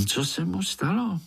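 high, eager question from a small spider; curious little spider. A narrator's reading. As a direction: ask it wide-eyed. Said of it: "zeptal se Pája". (zvědavý vysoký hlásek)

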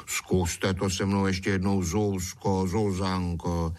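coaxing plea, drawn out at the end; lightly pleading, cajoling; begging. Acted. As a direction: wheedle her for another chance. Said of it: "škemral darmošlap".

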